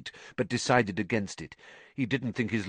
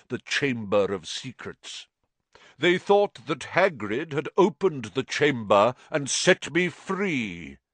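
put-on old spider voice; 5 semitones higher, 4 dB louder than usual. A narrator's reading. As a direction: speak as a weary giant spider. Aragog voiced at length.

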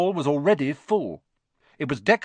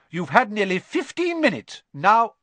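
high, loud, firm order; brisk no-arguing dismissal; 9 semitones higher, 6 dB louder than usual. A narrator's reading. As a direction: send them out firmly, louder on the last words. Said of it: "she said firmly".

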